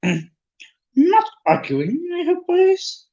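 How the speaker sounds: very high, drawn-out squeaky voice; slow squeak at the top of your range. A narrator's reading. Little professor interrupting squabbling boys, slow high squeak. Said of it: "he squeaked".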